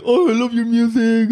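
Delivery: high, hammed-up fan gush; mock gushing fan. Imagining an awkward hello to a favorite singer, mock gushing. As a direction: put on a high, fawning fan voice.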